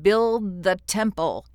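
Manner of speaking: loud, slow creature blurt. A narrator's reading. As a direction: blurt it out suddenly, slowly. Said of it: "it suddenly blurted out".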